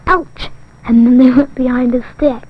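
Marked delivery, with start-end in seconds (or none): 0.1-0.5 high little cry of ouch; imitated ouch. Giraffe with a sore back cries out, mock ouch. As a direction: pipe up a pretend ouch. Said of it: "they heard something that went".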